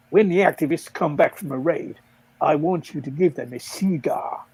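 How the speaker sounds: a touch of bad American; American accent. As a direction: put on a measured American voice. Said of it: "Don't make me do an American".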